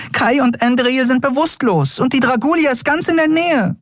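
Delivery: high, hysterical little fairy voice; tiny fairy voice. A narrator's reading. Tiny Nelen pressing Keru for answers, high and frantic. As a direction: flutter the questions out, high and frantic.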